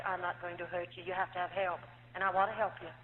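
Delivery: calm him down like a kind doctor holding her hands; gentle doctor. Retold or imitated.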